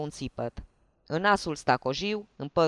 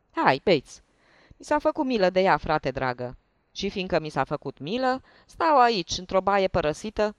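loud, hearty tipsy host; jovial drunk; 3 semitones higher, 3 dB louder than usual. Acted. Hiding lieutenant welcomes the investigators, loud tipsy cheer. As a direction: urge them to drink, boisterously.

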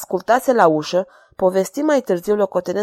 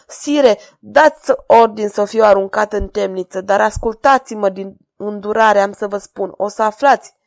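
sobbing; 4 dB louder than usual. Acted. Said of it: "hohoti Tribulet cu o voce slabă".

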